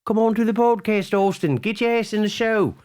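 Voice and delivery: hammed-up summons; calling out. The speaker calls for Austin to join the show, high pleading call.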